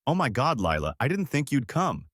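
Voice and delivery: high, gushing fake-friendly voice; fake sweet. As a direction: gush like a fake best friend. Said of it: "She air-kissed me like we were best friends".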